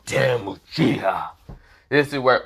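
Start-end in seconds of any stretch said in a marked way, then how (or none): 0.1-1.3 muttered curse. Acted. Gaara waiting, cursing Uchiha.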